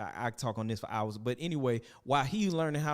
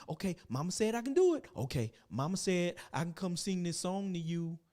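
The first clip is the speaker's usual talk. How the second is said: put-on childish eager son; 4 semitones higher than usual. Son announcing he'll sing.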